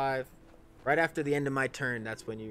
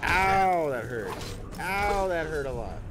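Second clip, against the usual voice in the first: dopey cartoon bellow; 5 semitones higher, 6 dB louder, slower than usual. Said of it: "Sorry, I am being loud".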